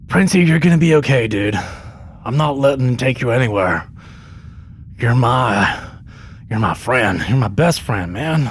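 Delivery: tender, earnest reassurance to a friend; Pedro Pascal voice. Acted. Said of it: "this is a different S N L sketch".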